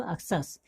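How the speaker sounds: "अक्सस" with the x read as ks; teacher's model reading of "अक्सस", ak-sus; pronunciation demo. Shown as a demonstration. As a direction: say "अक्सस" as ak-sus, falling at the end. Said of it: "क्या पढ़ेंगे इसको".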